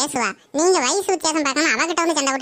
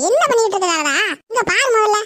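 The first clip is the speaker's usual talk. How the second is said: higher and louder, cutting in to stop the fight; calling out; 5 semitones higher, 3 dB louder than usual. Acted. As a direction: raise the voice to break up the quarrel. Neighbour stops the fight.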